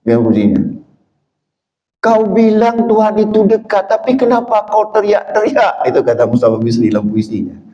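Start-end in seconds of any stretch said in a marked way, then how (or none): 2.0-5.8 higher poetic recitation; reciting a poem. Retold or imitated. Preacher quoting Mustafa Bisri's poem, higher and declaiming. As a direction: read it as a challenge. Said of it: "Mustafa Bisri pernah buat puisi".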